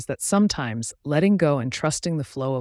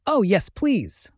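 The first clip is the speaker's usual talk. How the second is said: higher and slow, eager yes please; excited reply; 6 semitones higher, 4 dB louder, slower than usual. A narrator's reading. Leaf accepts the river's invitation, mildly excited. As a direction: draw out a thrilled, breathless yes. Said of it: "she replied excitedly".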